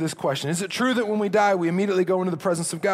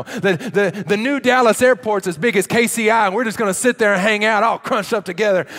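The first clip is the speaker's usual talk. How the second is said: mock excitement; 4 dB louder than usual. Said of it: "if you were to go tell people that story".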